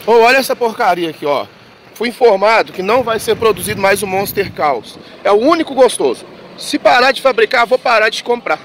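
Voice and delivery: high, fast indignant complaint; indignant rant. Real, not acted. Ranting about the discontinued drink.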